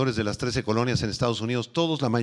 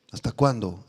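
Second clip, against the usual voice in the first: hasta cuándo said low and falling; low repeat; 4 semitones lower than usual. Acted. Preacher repeating the Lord's question, lower and grave. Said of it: "saber mis palabras".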